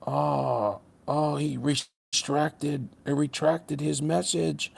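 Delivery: slow, soft fake astonishment; hammed-up amazement, slow and quiet; mock surprise. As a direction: draw it out like exaggerated shock. Mocking the commenter who retracted.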